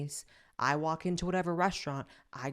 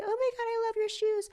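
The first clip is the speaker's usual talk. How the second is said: mock fake compliment; 4 dB louder than usual. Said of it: "they say".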